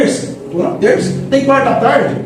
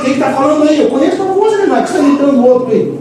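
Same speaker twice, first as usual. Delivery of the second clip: God calling out; 6 semitones higher than usual. Retold or imitated. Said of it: "Deus fala assim".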